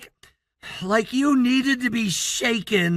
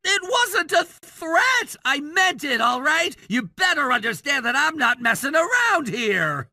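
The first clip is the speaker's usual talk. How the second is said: delinquent tough-guy act. Acted. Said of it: "trying to sound like some rebellious character".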